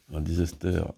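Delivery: slow, French-accented English words; English read slowly in a heavy French accent. Real, not acted. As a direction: stumble through the English with a thick French accent. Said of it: "j'ai un sacré accent anglais".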